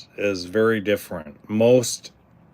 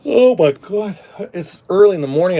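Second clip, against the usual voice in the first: talking through a big yawn; stretched out, sleepy yawn; 8 semitones higher, 4 dB louder than usual. Real, not acted. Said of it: "I'm yawning".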